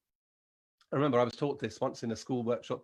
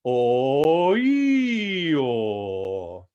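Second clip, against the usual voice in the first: head voice slide; 8 dB louder, much slower than usual. Shown as a demonstration. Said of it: "Try it".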